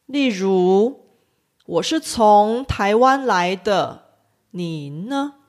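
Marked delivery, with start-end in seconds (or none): 1.7-5.3 “呢” said high and short at the end; light question ending on a high, quick “呢”; 句尾“呢”读短促高音. Shown as a demonstration. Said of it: "的声调发得比较高".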